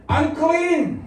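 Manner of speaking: high-pitched mock cry in public; demonstrating a street shout; leper's warning shout. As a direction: call it out like a leper. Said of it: "Sisigaw siyang ganun".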